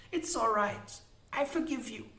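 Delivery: high, softened woman's voice; tender forgiveness. Acted. Molly touching the unicorn's cheek, tenderly forgiving. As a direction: let the reproach go, gently.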